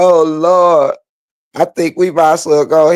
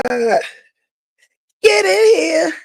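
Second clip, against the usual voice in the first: laughing squeal; 11 semitones higher, much slower than usual. Real, not acted. Laughing fit recalling the scene.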